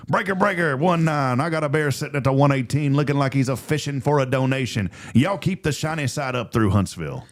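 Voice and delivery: CB radio trucker call; over walkie talkie. Pretend. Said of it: "Tell me if this is good".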